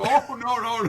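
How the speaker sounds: high-pitched mock-alarmed backpedal; hammed-up "oh no" of reassurance; Judd. Host plays the neighbor calming a scared child, mock alarm. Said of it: "she's freaking out, and he's like".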